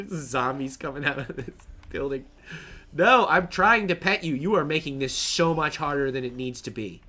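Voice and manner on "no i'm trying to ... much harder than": frustrated. Real, not acted. Frustrated at pig.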